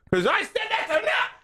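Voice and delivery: high hammed-up scolding; one last dribble of a rant; mock fed-up parent. Parent's last word to the kids, high mock scold. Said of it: "letting all the poison out".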